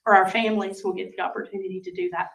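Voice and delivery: losing her voice, hoarse and worn; strained, fading sick voice. Real, not acted. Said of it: "I'm losing my voice".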